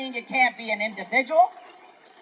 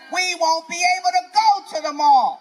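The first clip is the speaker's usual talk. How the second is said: louder, punching the word go; fired-up rant at the crowd; ranting shout; 3 dB louder than usual. Real, not acted. Ranting at crowd about loneliness.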